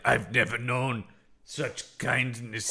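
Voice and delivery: slow, halting, overcome creature; mock tearful. Imitating the creature's tearful thanks to kind hosts, mock tearful. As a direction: draw it out as if moved to tears. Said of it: "he starts crying 'cause he's like".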